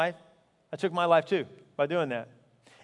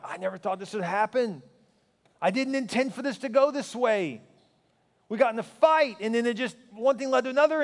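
mock bewildered excuse, pitched higher; protesting disbelief; 4 semitones higher than usual. Pastor imitating killers explaining how it happened, in higher-pitched protest. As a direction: plead innocence in a higher voice.

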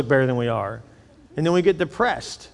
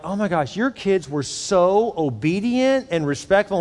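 slightly higher, drawn-out gush; gushing praise; 4 semitones higher than usual. Retold or imitated. Couple praising a pastor's kids, mildly gushing. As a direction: lightly imitate an impressed friend.

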